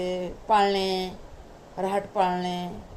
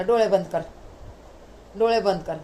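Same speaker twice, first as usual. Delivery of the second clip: louder, eager 'close your eyes' twice; playful insistence; 3 dB louder than usual. Retold or imitated. Son urging his mother before the surprise, louder and eager. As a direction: tease her into shutting her eyes.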